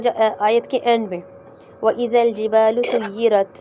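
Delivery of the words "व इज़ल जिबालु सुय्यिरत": slow recitation, "सुय्यिरत" ending in a small puff of air; measured final hams. Shown as a demonstration. Teacher modelling a verse ending, slow with a slight airy t. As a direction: recite slowly, release the last t of "सुय्यिरत" with slight breath. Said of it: "बस इतना है".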